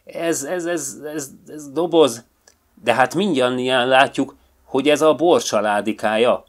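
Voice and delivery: interrupt, stammering with anger; the bear angrily cutting in; angry interruption. A narrator's reading. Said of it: "vágott közbe Örvös Barna haragosan".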